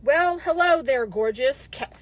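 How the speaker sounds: lightly voiced sleazy flirt, drawn out; mocking a creepy flirt. Mocking the soldier's message to her followers, a touch of sleaze. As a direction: read his line like a cheesy pickup. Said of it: "here's the message he sends me".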